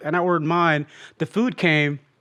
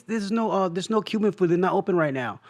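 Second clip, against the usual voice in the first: imitating the manager; 4 dB quieter than usual. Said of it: "he sounds like a little bit like that".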